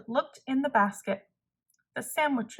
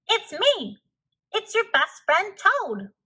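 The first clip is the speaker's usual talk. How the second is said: high, raised call; shouting across water; 8 semitones higher, 3 dB louder than usual. Acted. Toad calls to Frog on the island, raised and high. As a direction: make yourself heard far off. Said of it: "he shouted".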